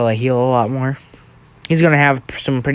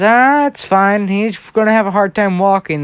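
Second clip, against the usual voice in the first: lightly voiced healer, pitched up; a higher, dismissive reassurance; Recovery Girl; 6 semitones higher than usual. Healer waves off danger to prankster, lightly voiced and high.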